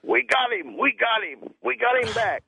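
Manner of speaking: high, elated cry of relief; excited relief. Retold or imitated. Doctor announcing the patient is revived, elated and high. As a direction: call it out like a doctor who just saved him.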